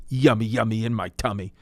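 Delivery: put-on goofy kid voice; childish singsong. Childish rhyme in ad.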